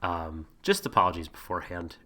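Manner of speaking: hoarse, stuffed-up sick voice. Real, not acted. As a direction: talk through a sore throat and blocked nose. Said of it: "I have a touch of the sick".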